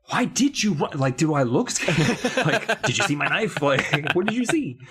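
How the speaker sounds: villain mockery breaking into laughter; laughing impression. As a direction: try to stay in character while laughing. Laughing through Ahmed impression.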